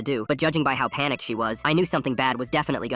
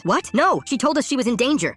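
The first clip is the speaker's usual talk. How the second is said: high, shocked objection; distressed protest; 11 semitones higher, 4 dB louder than usual. A narrator's reading. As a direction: protest in alarm, pitched way up. Mom protests her arrest.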